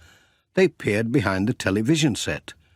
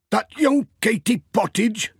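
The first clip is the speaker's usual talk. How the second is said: higher, fond grumble of a shopkeeper; Sam amused; 12 semitones higher than usual. Acted. Sam remarking on Katie to Pat, higher wry voice.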